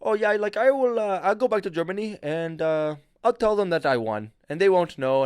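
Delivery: high, loud mock of a clueless rower; mimicking the German kid. To a friend, mocking the German teammate's boast. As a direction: ham up his naive confidence. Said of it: "And he said".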